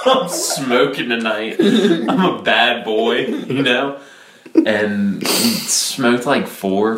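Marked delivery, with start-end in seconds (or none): 0.0-4.0 high, laughing bad-boy brag; laughing mock boast. Teen bragging to friends, laughing and playful. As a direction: giggle through the boast.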